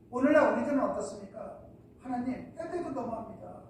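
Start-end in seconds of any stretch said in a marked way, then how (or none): 2.0-3.6 imitated complaining prayer. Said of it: "할 때가 많죠".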